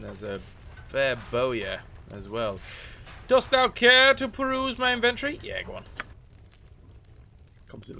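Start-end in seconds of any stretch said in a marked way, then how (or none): 3.3-5.4 higher, louder olde-worlde shopkeeper; lightly hammed archaic merchant; mock courtly merchant. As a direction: invite them grandly to browse. Voicing NPC shopkeeper.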